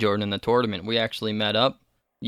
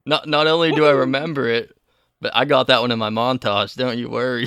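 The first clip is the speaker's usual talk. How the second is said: laughing brag; 5 dB louder than usual. Real, not acted.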